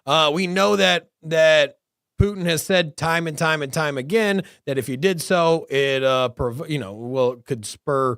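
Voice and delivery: high, loud mocking president; mock the old president loudly; mock Biden voice. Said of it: "he's all like".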